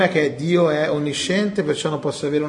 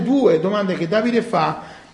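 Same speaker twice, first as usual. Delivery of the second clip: usual speaking voice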